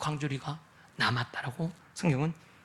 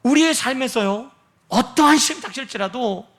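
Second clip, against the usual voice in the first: usual speaking voice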